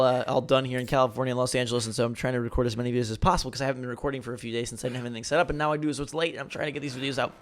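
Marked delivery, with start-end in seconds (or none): 5.4-7.3 talking through a yawn; tired, yawning while speaking. Real, not acted. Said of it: "Pardon my yawns".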